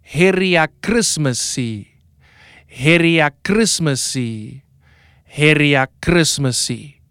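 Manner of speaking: "Heria Christmasi" with stress on HEH and a final -si; teaching pronunciation of "Heria Christmasi". Shown as a demonstration. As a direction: model "Heria Christmasi" for the class to repeat. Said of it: "say it with me three times".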